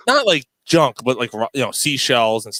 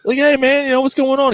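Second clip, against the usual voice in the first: higher, hammed-up voice of a friendly stranger; imitating a street dude; 10 semitones higher than usual. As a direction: play the chummy guy at the beach, lightly. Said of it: "He's like".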